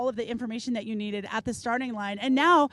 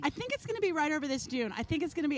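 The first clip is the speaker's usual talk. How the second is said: soft, expectant murmur; quietly hoping, holding breath; hushed anticipation; 3 semitones higher, 5 dB quieter, faster than usual. Retold or imitated. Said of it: "isn't that amazing when you're like".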